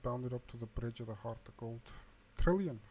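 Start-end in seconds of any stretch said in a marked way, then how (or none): 2.4-2.8 loud, raised call of the names; shouting. A narrator's reading. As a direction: call out urgently to two companions. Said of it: "he shouted".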